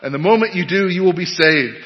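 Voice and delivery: lay preacher. Acted. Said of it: "the preacher went on".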